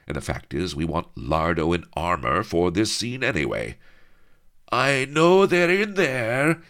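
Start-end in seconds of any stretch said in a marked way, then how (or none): 4.7-6.6 hammed-up armored brute bellowing. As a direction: bellow through the door. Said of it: "he bellowed".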